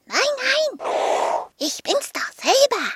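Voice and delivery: high, indignant little dragon; scolding. A narrator's reading. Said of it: "schimpfte der kleine Drache".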